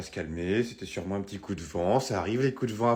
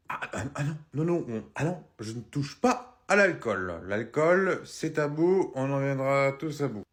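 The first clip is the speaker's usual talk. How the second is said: put-on drunk son; 3 semitones higher, 3 dB louder than usual. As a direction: drag the words like a drunk. Fils ivre qui nie. (fils ivre, lent et pâteux)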